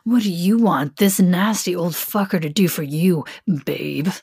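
low-key voiced male lover; a hint of a man's character voice. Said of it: "not my voice".

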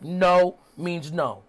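slow, deliberate mock admonishment; Cody. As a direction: spell it out slowly, each word apart. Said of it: "says this funny thing on commentary".

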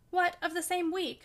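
drawn-out, incredulous question; exclaiming. A narrator's reading. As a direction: exclaim in disbelief, pitch lifted. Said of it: "she exclaimed".

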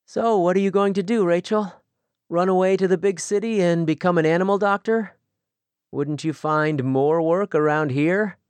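mild teasing suitor; lightly voiced young man, teasing. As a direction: poke fun at her dream. Daniel teases her plans.

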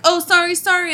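a hint of a smirking boy; mock apology. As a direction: play the boy brushing it off. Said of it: "they're like".

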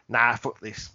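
low, quiet fed-up quitting; dismissive. Acted. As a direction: throw it away, bored. Dinosaurs quitting, voiced.

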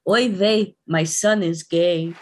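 put-on a light Yiddish accent on the film title, slow at the end. Host announcing next week's film, in a light mock Yiddish accent. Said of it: "Should I not do the accent?".

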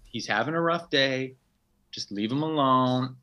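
husband mimicking his wife explaining herself; wife's voice. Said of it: "she's like".

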